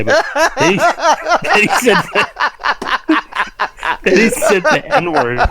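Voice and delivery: high, squeaky words through laughter; laughing while talking. Real, not acted. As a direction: barely get it out for laughing. Laughing through an ironic retelling.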